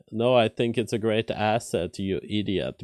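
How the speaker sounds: sarcastic. Retold or imitated. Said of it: "like, sarcastically".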